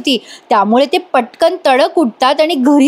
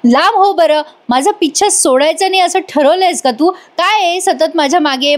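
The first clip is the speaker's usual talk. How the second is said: a hammed-up angry rebuke, mostly higher in pitch; retold anger; 4 semitones higher than usual. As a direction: act out a scolding, half in earnest. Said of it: "जोरात चिडतात".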